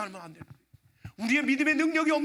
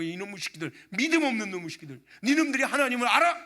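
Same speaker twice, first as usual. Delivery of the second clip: retold angry scolding; 4 dB louder than usual. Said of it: "제가 화가 나가지고".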